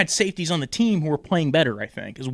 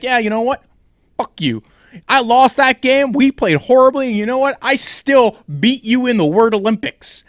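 mock Baker rant; 6 semitones higher, 6 dB louder than usual. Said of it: "Baker was like".

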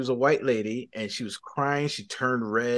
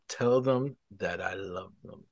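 slow, lower-pitched divine instruction; God's calm command; 4 semitones lower, 4 dB quieter, slower than usual. Retold or imitated. God telling him to pass on a message, calm command. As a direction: lightly voice God, slow and measured. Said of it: "God says it to me one more time".

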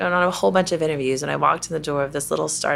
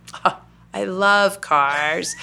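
slow, drawn-out mock enthusiasm; retold eager bluff, very slow; put-on enthusiasm; much slower than usual. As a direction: stretch it out as if bluffing an interviewer.

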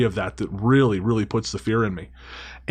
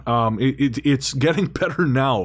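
slightly off, struggling voice; wonky voice. Real, not acted. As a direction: voice going strange and unsteady. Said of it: "Your voice is going weird".

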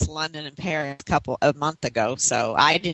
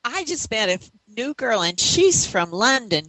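a hint of a teenage girl, higher and gushing; bursting through the door with news, pitched up; excited teen daughter; 7 semitones higher than usual. Daughter telling her mother about a new friend, gushing and high. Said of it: "say to my mother".

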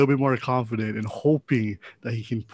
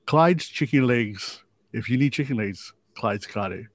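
mock ad slogan. Plugging Clyde's Chicken Legs.

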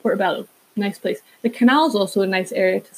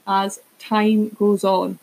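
slow correction; much slower than usual. Real, not acted. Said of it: "What is, what is going on with me today?".

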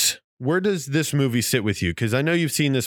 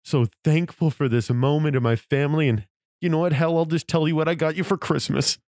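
mock Clark speech building; 6 semitones higher than usual.

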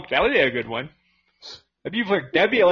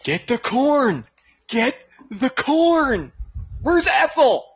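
slow, drawn-out, higher farmer voice; mock Amish farmer; 7 semitones higher, slower than usual. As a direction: play a slow old farmer.

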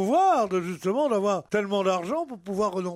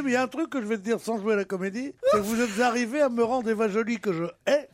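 laughing. Real, not acted. Half-laughing mock outburst.

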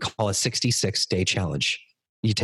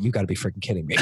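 laughing disbelief; 3 semitones lower, much faster than usual. Real, not acted. Amazed aside to wife, laughing.

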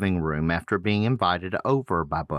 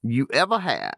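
bad Australian accent; 6 semitones higher than usual. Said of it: "You just can't do an Australian accent".

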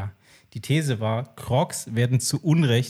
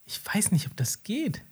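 hushed unvoiced aside; whisper; 8 semitones higher, 7 dB quieter than usual. Real, not acted. Doubting the shoes, whispered aside. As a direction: breathe it under your voice. Hesitant aside while others talk.

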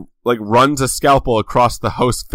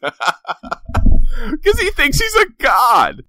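mock shout; 13 semitones higher, much slower than usual. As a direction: belt it out like a mad prophet. Mocking Wyatt's god complex.

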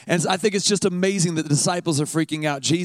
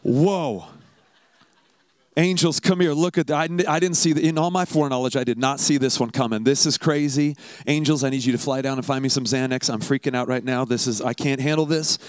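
panicking God. Pretend. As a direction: ham up God losing his cool over a surprise. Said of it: "He's never like".

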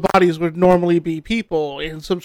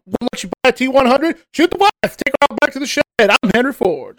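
mock car salesman; 5 semitones higher than usual.

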